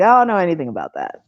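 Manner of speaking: quick airheaded denial; playing dumb. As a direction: rattle it off like a ditz. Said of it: "play dumb and be like".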